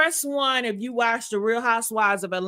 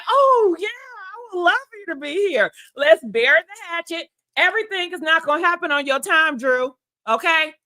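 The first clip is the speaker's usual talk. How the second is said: high, loud sarcastic voice; mock the fake welcome she wanted; mock sweet sarcasm; 5 semitones higher, 3 dB louder than usual. Voicing Porsha sarcastically at Drew, high and mocking.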